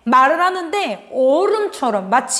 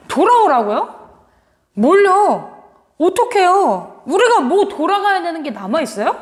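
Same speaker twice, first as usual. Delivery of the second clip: a mildly icy, defiant retort; cold and biting; 3 semitones higher than usual. Acted. People of Judah snapping back at God, mildly cold and defiant. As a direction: talk back coldly, a bit sharper. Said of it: "라고 하면서 무슨 얼음장처럼 차갑고 매섭게".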